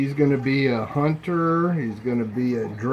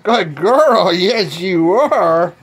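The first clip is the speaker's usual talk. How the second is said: dog praise voice; 4 semitones higher, 5 dB louder, much slower than usual. Real, not acted.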